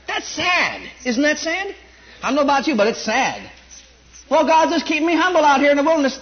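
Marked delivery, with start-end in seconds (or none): 4.3-6.2 mock pious prayer. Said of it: "what people think about God".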